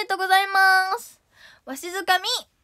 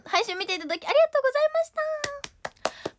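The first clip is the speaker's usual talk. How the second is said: sing-song thanks; 10 semitones higher than usual. Acted.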